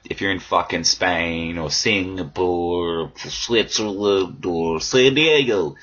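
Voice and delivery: slow, savouring each S word; alliteration played up. Shown as a demonstration. Host showing off alliteration, slow and deliberate. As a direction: lean on the S sounds, drawn out. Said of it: "See what I did there?".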